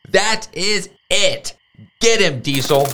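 sic the rooster on the bullies; shouted command. A narrator's reading. Delilah sends Diesel after the boys, shouting. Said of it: "Delilah shouted".

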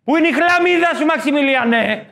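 hammed-up mother calling out. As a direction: call the kid in from the yard. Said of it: "η μάνα".

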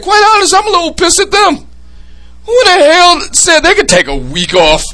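high, fast put-on radio DJ voice; DJ impression. Host voice complaining the crew took a week off, high and fast. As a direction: play a radio host who's fed up. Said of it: "my best D J M eighty impression".

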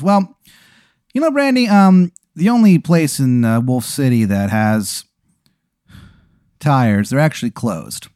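slow clown host, starting high; Sugar King. Acted. Clown host breaking bad news to a stranded guest, high then slow. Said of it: "He goes".

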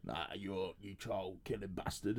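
low, very quiet disgusted mutter; mock contempt. One killer condemning another, muttered mock contempt. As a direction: mutter it low like a judgmental inmate. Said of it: "to go to Ian Huntley going".

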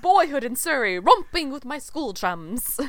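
lightly hammed-up fond reminiscence; grand monologue recital. Cohost reciting Gil's cut monologue, mock grand and slow.

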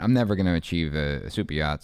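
real Boston accent slipping out. Real, not acted. Man rejecting a defeatist mentality, Boston accent. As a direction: let the Boston vowel slip out on yacht. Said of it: "most Boston thing I've ever heard".

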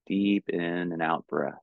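calm, unhurried meditation guidance with long pauses; measured, soothing meditation teacher; guided meditation. Real, not acted. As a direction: guide them gently into stillness, leaving space between phrases.

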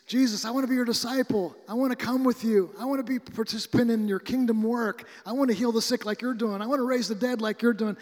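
a lightly voiced healed man begging eagerly; eager plea. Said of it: "And he says to Jesus".

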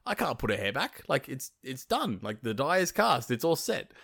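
flustered. Acted. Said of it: "Loki's feeling a little bit frazzed".

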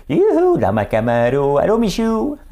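high, loud hollering from the car; hammed-up driver yoo-hooing, drawn out; Jean Charest. Mocking a politician waving at his camera while driving, hammed-up hollering. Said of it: "J'étais pas comme Jean Charest".

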